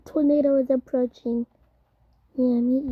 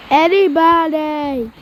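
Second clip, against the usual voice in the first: calling for help; 3 dB louder, much slower than usual. Pretend. Playing tornado victims calling out.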